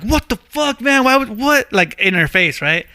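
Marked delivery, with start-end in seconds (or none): 0.0-1.7 mock outrage, pitched much higher; a high, hammed-up copy of his sister's disbelief; imitated outraged sister. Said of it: "She was like".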